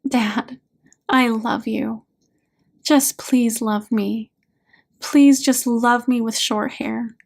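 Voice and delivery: understated, tearful-sad pleading; sadness. Acted. Daughter begging dad to love her after the anger, subdued sadness. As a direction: plead gently, with a touch of sorrow and no anger left. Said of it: "Only sadness remains".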